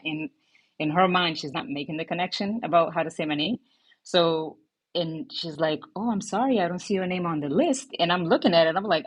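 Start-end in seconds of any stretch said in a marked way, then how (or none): 5.9-7.9 lightly voiced apologetic teacher; a hint of a polite, puzzled teacher; retold apologetic teacher.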